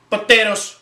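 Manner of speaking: "Potatoes" savored as a fun word; playful, relished "Potatoes". Pretend. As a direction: relish saying "Potatoes" for its sound. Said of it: "I love saying potatoes".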